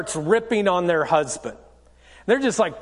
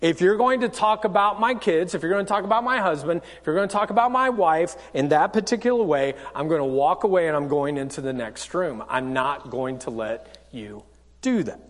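calm boundary-setting; 5 semitones lower than usual. Acted. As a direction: hold the line calmly, without heat. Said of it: "You just calmly say".

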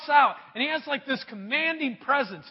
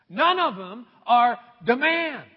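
emphatic; 5 dB louder than usual. Acted. Climax of refrain.

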